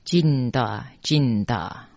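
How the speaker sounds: Jinda Jinda in two even units ending "da"; special mantra pronunciation. Shown as a demonstration. Teacher reading line thirty-seven, careful pronunciation demo. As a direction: demonstrate Jinda Jinda with open final "da". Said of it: "三十七的发音比较特别".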